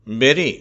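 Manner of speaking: பெரி said with a short e for the u; e sound demo. Shown as a demonstration. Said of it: "ஏ என்று சொல்லி". (யூ எழுத்தை ஏ ஒலியாக உச்சரித்தல்)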